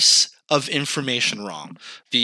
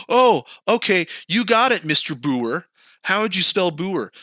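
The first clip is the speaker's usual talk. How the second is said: mock agent; 5 semitones higher than usual. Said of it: "she's like".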